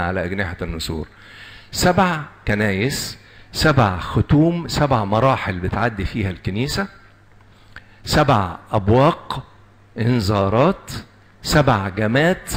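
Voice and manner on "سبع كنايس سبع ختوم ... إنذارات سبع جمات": slow, stressing each سبع; slow emphatic list. Shown as a demonstration. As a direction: spell out each سبع slowly for the class. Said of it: "slow listing of sevens". (تعداد بطيء مع تشديد على سبع)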